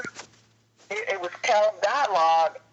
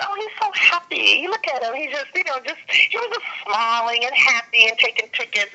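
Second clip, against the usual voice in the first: admiring; 5 semitones higher, 3 dB louder than usual. Retold or imitated. Admiring the happy gate agent.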